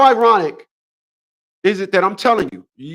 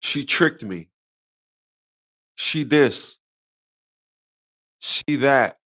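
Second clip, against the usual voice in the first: mocking whiny men; 6 semitones lower, 4 dB quieter, much slower than usual. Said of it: "they say things like".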